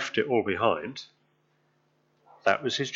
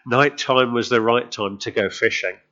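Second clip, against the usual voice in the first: mock advert jingle. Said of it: "I'm not trying to run a, an advert here".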